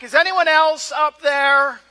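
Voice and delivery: loud, high shout upward; acted-out yell from the cliff; yelling back. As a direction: call out for someone else. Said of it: "and he yells back".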